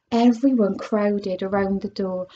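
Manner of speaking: lively storybook read-aloud; animated picture-book narration; reading to children. Acted. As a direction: read it like story time for kids. Reads a chapter aloud to children.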